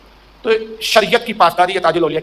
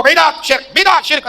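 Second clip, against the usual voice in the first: mocking the preacher, rising to a shout; mock shouted accusation; 6 semitones higher, much slower than usual. Preacher who calls everything shirk, mockingly shouting. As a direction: bark it out like a zealot handing out fatwas.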